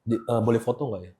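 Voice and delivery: soft, low hesitant request; retold whisper. Fan asking Arnold for a photo, hushed retold whisper. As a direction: ask softly, as if whispering to a star. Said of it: "gua sih bisik".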